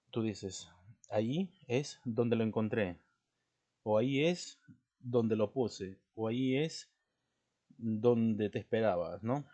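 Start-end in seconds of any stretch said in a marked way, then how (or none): 1.1-3.0 loud statement, "donde" not questioned; afirmación. Shown as a demonstration. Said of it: "afírmalo". 4.0-6.0 loud, slowed statement falling at the end; afirmación. Shown as a demonstration. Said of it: "afírmalo". 6.3-9.2 loud, slow example statement; afirmación. Shown as a demonstration. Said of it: "afírmalo".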